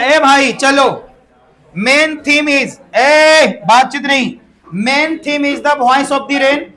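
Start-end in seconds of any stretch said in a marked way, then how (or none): 4.7-6.7 very slow, word by word; slow dictation. Shown as a demonstration. Teacher dictating the main theme to students, very slowly. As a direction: read each word out for copying.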